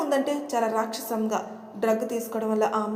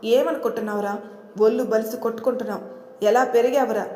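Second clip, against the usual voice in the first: louder, angry scolding, fast in the middle; a retold angry outburst, louder and pushing; angry retort; 6 dB louder than usual. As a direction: tell him off loudly as a furious husband. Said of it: "ప్రభ కోపంతో".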